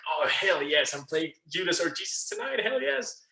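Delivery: high, eager mock celebration; retold excitement. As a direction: act out being thrilled to get the part. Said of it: "he listened to my excitement".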